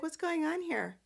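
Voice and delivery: high, softly imitated question; Victoria. Boss walking in on a brewing fight, high-pitched imitation. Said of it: "and she's like".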